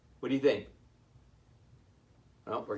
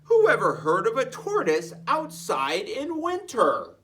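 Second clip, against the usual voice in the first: louder, higher mocking laugh; laughing scoff; 6 semitones higher, 4 dB louder than usual. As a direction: laugh off the silly notion. Parents scoffing, laugh heard.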